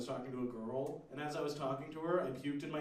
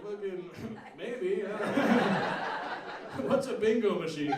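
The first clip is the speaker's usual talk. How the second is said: laughing hesitation; 2 semitones higher, 4 dB louder than usual. Retold or imitated. Crowd hesitantly questioning ranter.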